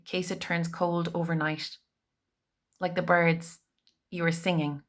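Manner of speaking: measured poem recital with pauses between images; poetry reading. Real, not acted. Poet reading another writer's hopeful poem to an online audience, measured recital. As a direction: let each image land, pausing after phrases.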